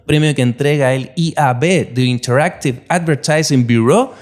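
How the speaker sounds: polished, read-out intro for a guest; podcast guest introduction. Acted. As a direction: present the guest like an announcer. Host reads the guest introduction. (presentación de invitado de podcast)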